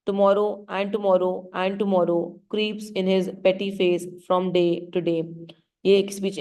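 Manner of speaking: very slow, drawn-out lines; slow weary recital. Shown as a demonstration. Teacher reciting Macbeth's tomorrow speech to class, slow and weary. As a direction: let each tomorrow drag toward death. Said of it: "slow pace में बोल रहा है".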